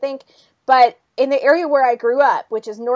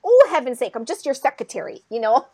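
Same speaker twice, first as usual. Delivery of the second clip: put-on Minnesota accent; 4 dB louder than usual. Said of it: "the main Minnesota lady who plays".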